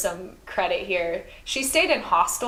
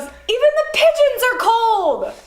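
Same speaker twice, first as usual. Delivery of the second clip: high, louder mock mother voice; mom joking; 13 semitones higher, 7 dB louder than usual. Mom telling her daughter the pigeons are cold. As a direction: play the deadpan mom's punchline. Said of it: "And she goes".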